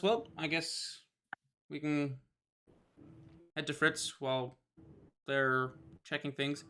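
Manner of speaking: soft, slow NPC voice; quiet. Acted. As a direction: say it softly, unhurried. GM voices Tarlin softly.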